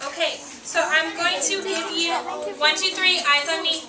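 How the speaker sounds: sing-song classroom attention call; kindergarten teacher voice. Acted.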